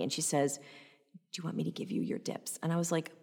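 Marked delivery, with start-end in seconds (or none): 1.3-2.6 soft, quick pitying offer; hushed offer of sympathy. Retold or imitated. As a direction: imitate a pitying assistant, quietly. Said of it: "like, pity on me".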